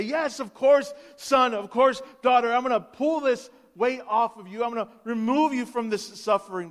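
put-on a parent rushing to save their child; eager parent reassuring. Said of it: "any parent would say".

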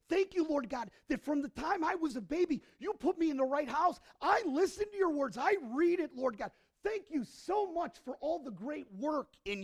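loud, high, self-congratulating prayer; preacher acting a boastful Pharisee, high and loud; proud Pharisee. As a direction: crow your thanks to God like a smug Pharisee. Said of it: "The Pharisee stood and he goes".

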